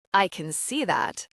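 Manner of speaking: dry. Acted. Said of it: "he says dryly".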